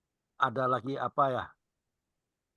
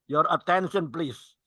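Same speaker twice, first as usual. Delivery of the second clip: flight attendant; slower than usual. Pretend. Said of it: "suara pramugari beda".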